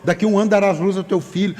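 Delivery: quick, mildly flustered mock prophecy; flustered, startled blurt. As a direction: rush out the blessing to escape embarrassment. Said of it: "Foi no susto".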